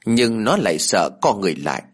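plain reading voice

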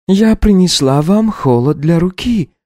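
high, slow gentle servant voice; careful and respectful; Sara, timid maid. Acted. Maid brings a cold compress to the countess.

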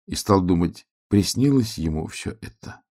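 usual speaking voice

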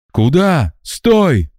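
high urgent call to stop. A narrator's reading. Voice from the fog calling Max back, high urgent. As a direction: shout after him as he walks away.

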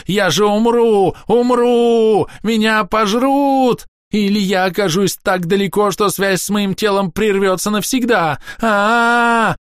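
very high, loud, slow terrified cries; doomed elf screaming for mercy. A narrator's reading.

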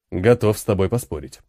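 ниже, с насмешкой; лёгкая издёвка, низким голосом; насмешливо. Acted. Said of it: "полный насмешки голос". (ожившая статуя насмешливо отвечает командиру)

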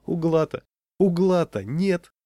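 high, loud and drawn out; understated breathless amusement; gasping with mirth. A narrator's reading. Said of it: "задыхался он". (весело, будто задыхаясь)

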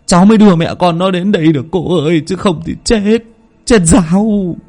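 a frightened man choking back tears, voice lifted high; tearful peasant man. A narrator's reading. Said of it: "thút thít mới bật được thành câu". (giọng người đàn ông sụt sùi, cao giọng kể lể)

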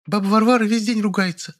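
put-on a boy reporting like a soldier; crisp military report. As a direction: rap it out like a little soldier. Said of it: "чётко по-военному отрапортовал Колька".

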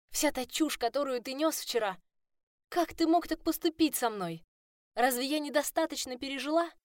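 furious tirade. A narrator's reading.

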